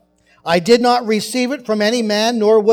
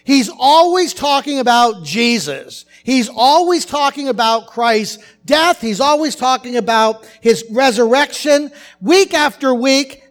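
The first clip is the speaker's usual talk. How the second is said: mock fed-up rant, pitched up on each complaint; retold rant; 3 semitones higher, 4 dB louder than usual. Woman complaining to pastor about her own church, mock rant. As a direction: hammer out each repeated grievance, higher, imitating her. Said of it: "she continued her rant".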